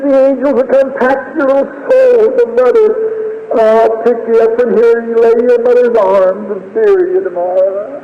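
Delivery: very high, tender grieving voice; tearful farewell. Retold or imitated. Father blessing his dying daughter, tearful. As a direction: bless the child through grief.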